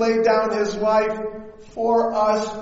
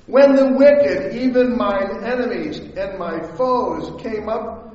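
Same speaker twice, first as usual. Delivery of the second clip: measured, solemn Bible reading; scripture reading. Acted. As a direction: read the psalm with weight. Reads scripture aloud.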